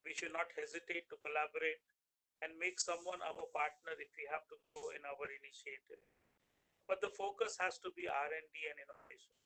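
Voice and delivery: faint and far from the mic; words fading out of earshot; barely audible. Real, not acted. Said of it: "Your voice is very low".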